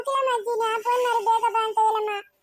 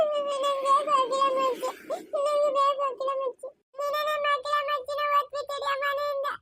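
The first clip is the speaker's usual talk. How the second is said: put-on crying child. Sick daughter begging her mother for grandma, crying. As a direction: sob out the longing for grandma.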